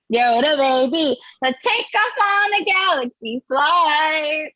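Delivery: lightly sing-song reading of a silly poem; poem recital. Acted. Comic reading a Baby Yoda poem to the crowd, lightly sing-song. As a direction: recite the verses with mock sentiment.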